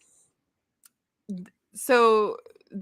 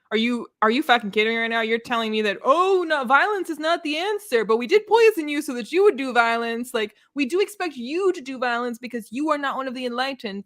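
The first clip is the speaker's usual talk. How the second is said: indignant outburst; 5 semitones higher than usual. Pretend. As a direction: blow up at the hypocrites. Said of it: "I'd be like".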